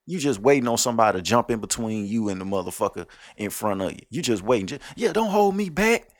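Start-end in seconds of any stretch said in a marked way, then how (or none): 4.9-6.1 high whiny 'hold me back' bluff; mock tough guy. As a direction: squeal it like a fake tough guy begging to be held back. Mocking a fake tough guy.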